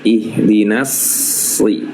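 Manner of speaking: "Ihdinas si" with a heavy, full S right away; thick S from the start. Shown as a demonstration. Tajwid teacher showing students the heavy S. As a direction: sound the s in "Ihdinas si" thick from the first moment. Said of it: "Jadi S-nya langsung tebal".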